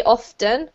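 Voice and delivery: "often" with the T pronounced, off-ten; sounded T. Shown as a demonstration. Teacher giving personal preference, T sounded in "often". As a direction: say "often" with its T heard. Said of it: "I usually say".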